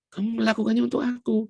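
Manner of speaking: ringing declaration of the verse; emphatic repeat. Shown as a demonstration. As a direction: proclaim melakukannya as the point. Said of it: "verse repeated with force".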